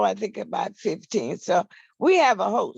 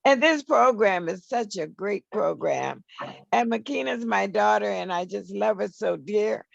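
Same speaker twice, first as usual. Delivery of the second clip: hoarse morning voice, a bit rough. Real, not acted. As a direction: speak through a hoarse throat. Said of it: "excuse my voice, I, I have some hoarseness this morning".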